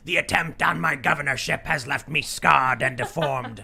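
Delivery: hammy grandiose politician voice; lightly voiced supervillain decree; mock villain speech. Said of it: "and says".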